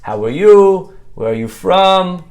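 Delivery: put-on Hasidish accent. Hasidish kid greeting a new acquaintance, Hasidish accent. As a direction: imitate a friendly Hasidish kid's accent. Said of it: "with his Hasidish accent".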